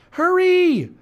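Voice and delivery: high, loud urgent call; calling back. A narrator's reading. Annie calls back to lagging Jack, urgent call. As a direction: call back to hurry him along. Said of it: "Annie called back to him".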